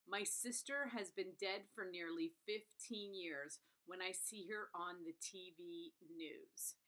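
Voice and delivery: slow, measured reading of an opening line; book read-aloud. Acted. Reviewer reads viewers the first line, slow read-aloud.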